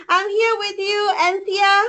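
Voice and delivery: on the verge of happy tears; shaky excitement. Real, not acted. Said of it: "my voice is shaking right now".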